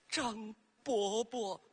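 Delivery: slow, drawn-out lightly voiced ghost; ghost in pot. Ghost pot calls old Zhang by name, slow eerie voice. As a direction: call his name slowly like a lingering spirit. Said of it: "就听这盆儿说".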